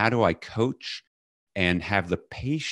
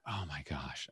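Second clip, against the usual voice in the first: horrified; 4 semitones lower, 16 dB quieter than usual. Retold or imitated. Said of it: "And I felt horrible".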